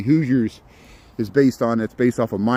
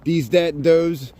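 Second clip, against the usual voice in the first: Chicago accent; 3 semitones higher, slower than usual. Shown as a demonstration. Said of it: "what does my accent sound like".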